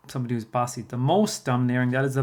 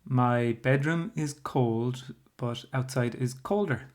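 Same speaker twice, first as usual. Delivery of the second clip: slow example sentence; slower than usual. Shown as a demonstration. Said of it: "I might say".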